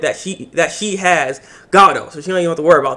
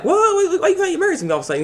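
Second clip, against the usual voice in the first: mock shocked whoa; 13 semitones higher, much faster than usual. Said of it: "I thought he would be like".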